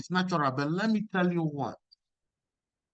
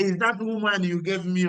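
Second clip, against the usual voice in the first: Adam shifting blame, a touch higher; mock-whiny excuse passing the blame; whining Adam; 4 semitones higher than usual. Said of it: "he said".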